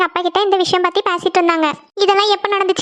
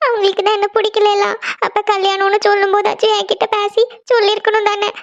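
hurt complaint after sobbing; tearful; 3 semitones higher than usual. Acted. Rejected girl complains to her friend about the wedding, tearful. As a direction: lament it as if just done crying. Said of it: "நீ அழாத நந்தினி".

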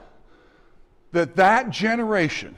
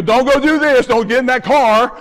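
warning at screen; 2 semitones higher, 6 dB louder than usual. Retold or imitated. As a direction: shout at the movie character. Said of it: "you know".

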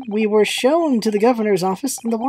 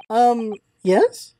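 usual speaking voice

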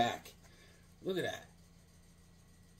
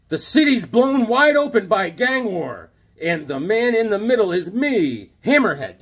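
hammed-up villain voice; 3 semitones higher, 4 dB louder than usual. Reading Hammerhead's cover line.

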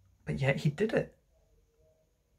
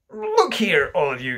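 calling attention; 5 semitones higher, 5 dB louder than usual. Acted. Father calls the children over.

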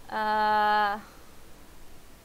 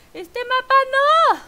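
louder and higher, slow, firm no; loud refusal; 12 semitones higher, 10 dB louder, slower than usual. Real, not acted. Streamer refuses the map to chat, loud and slow. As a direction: insist loudly that she doesn't want this map.

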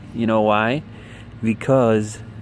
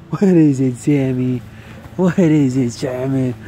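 excited dog talk; 6 dB louder than usual. Real, not acted.

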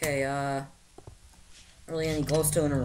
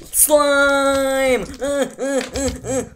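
excited squeal; 8 semitones higher, 7 dB louder, much slower than usual. Acted.

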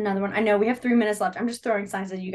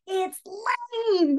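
mentor's reveal; 10 semitones higher than usual. Retold or imitated. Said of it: "She goes".

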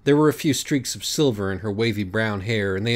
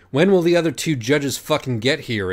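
loud, higher irritated snap; snapped; 7 semitones higher, 6 dB louder than usual. Acted. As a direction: bark it impatiently. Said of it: "Acorn snapped".

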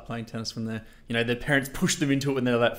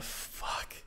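whispered, voiceless curse; hushed retold swear; 15 dB quieter than usual. Player stepping out into freezing Hanover, hushed dismay. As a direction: let it out under your breath.

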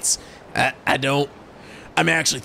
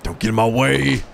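possessive shout; 7 semitones higher than usual. Acted. Rival claims Sachiko.

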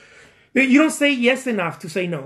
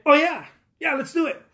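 eager agreement; 8 semitones higher than usual. Acted. Voices band agreeing to small gig.

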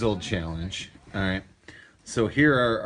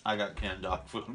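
laughing; 2 semitones lower, 10 dB quieter than usual. Real, not acted. Reacting to gross bean.

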